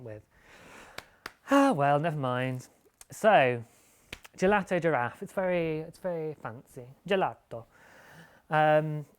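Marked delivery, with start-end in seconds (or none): 4.4-7.6 a mock Italian accent that slips toward French; hammed-up Italian "Gelato", louder; bad Italian accent. Vlogger mock-announcing the toy's new name in a bad Italian accent. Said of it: "I can't do an Italian accent either".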